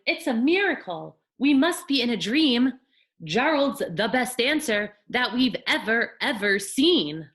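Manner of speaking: high, loud crowd cheering; amazed shout. Acted. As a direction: cheer in wonder as the animals. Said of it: "They shouted".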